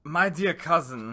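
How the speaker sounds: laughing, lightly done Walken imitation; a half-hearted Walken take; Christopher Walken impression. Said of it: "more Christopher Walken-ish".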